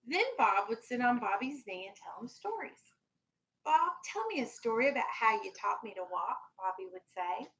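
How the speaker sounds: gentle storybook read-aloud for a class; lightly voiced picture-book reading; reading to children. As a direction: read it like story time on the rug.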